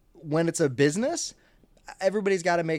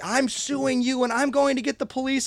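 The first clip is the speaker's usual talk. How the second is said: mock threatening customer; 11 semitones higher, 5 dB louder than usual. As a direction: drag it out like a furious customer.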